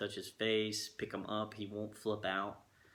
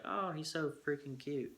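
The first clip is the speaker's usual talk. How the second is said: higher, gushing over a cute puppy; gushing quote; 6 semitones higher than usual. Retold or imitated. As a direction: squeal it like you just met the puppy. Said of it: "you're like".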